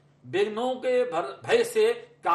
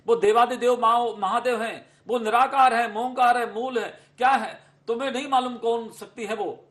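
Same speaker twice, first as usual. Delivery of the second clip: a raised, earnest plea from a worried father; father pleading; 4 dB louder than usual. Acted. King Himachal urges his daughter to come home, raised pleading voice. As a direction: call her home, louder and urgent.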